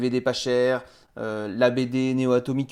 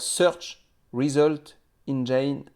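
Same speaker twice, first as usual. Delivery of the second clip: slow, careful English with a French accent; English words, French-accented and deliberate; English pronunciation; 3 semitones higher, much slower than usual. Shown as a demonstration. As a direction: spell out the English term slowly, French accent showing. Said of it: "avec mon accent anglais, c'est pas terrible".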